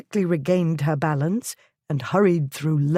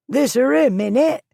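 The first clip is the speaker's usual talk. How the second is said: much higher, loud jeering cockney call; rough shout; 8 semitones higher, 5 dB louder than usual. A narrator's reading. Ragged man shouting at the lord through the window, loud jeer. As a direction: heckle him from the mob. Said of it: "and shouting".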